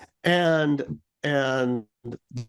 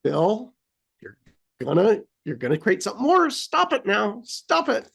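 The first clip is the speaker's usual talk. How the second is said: mild self-scolding; 4 semitones higher than usual. Retold or imitated. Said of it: "I'm like".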